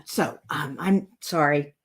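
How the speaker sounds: whispered, near tears apology; choked up. Real, not acted. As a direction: let the voice break to a whisper. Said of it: "I'm not gonna cry".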